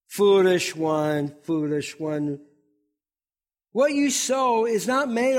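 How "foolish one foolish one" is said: slow scripture read. Acted. Reading scripture, repeated phrase.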